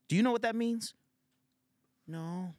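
put-on high, loud old man quizzing. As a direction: quiz the kids like a smug elder. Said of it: "gives unsolicited advice".

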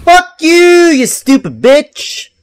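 high screaming curse; raging gamer. Real, not acted. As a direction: scream the insult. Cursing the boss.

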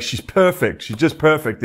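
Boston-accented movie impression. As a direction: lightly imitate a Boston guy. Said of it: "he's in his Boston accent".

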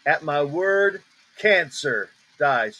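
slow, weighted "cancer", falling on "dies"; stress on CANCER. Shown as a demonstration. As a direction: set "cancer" apart with deliberate weight. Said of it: "You hear the emphasis?".

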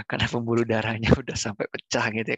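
laughing. Real, not acted. Laughing at own joke.

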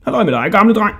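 high, cheeky hail; calling out. A narrator's reading. Hodja teasing the jailer from the other cell, calling out high. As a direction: call out teasingly.

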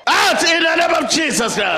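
shouting faith healer. Acted. Preacher commanding demon out.

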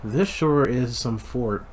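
put-on butchered Irish accent. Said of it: "butchered Irish accent".

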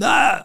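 a short, high retold yell of rage; mock angry yell. Angry host cuts him off with a high, mock yell. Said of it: "He's screaming and yelling at me".

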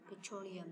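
"petroleum" with TRO stressed; stress on second syllable. Shown as a demonstration. Teacher finishing the stress exercise, second syllable of "petroleum" stressed. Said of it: "là âm hai".

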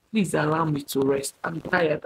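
softly pleading to be left alone; re-enacted tired, hushed appeal; soft plea. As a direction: plead quietly, worn out. Acting out her plea to rest.

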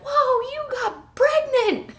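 high, slow, amazed exclamation; surprised customer. Retold or imitated. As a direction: gasp it out like a stunned regular. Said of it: "some of our regulars were like".

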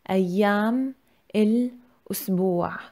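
أيام then الأسبوع, each word said slowly and apart with a pause between. Shown as a demonstration. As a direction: break أيام الأسبوع into its two words, slowly.

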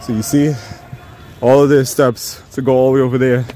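winded from climbing stairs; talking breathless mid-climb; out of breath. Real, not acted. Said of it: "'cause I'm talking while I'm walking up the steps".

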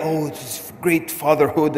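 mock gushing. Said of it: "I didn't feel any that".

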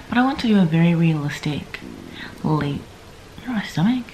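groggy morning voice; barely awake, first words of the day; just woke up. Real, not acted. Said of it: "my voice sounds weird, I just woke up".

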